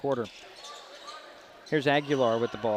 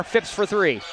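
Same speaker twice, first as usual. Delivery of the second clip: raised, louder call on the shot; excited shot call; 6 semitones higher, 5 dB louder, slower than usual. Real, not acted. Announcer to listeners as a three goes up, excited. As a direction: lift it high as the ball goes up.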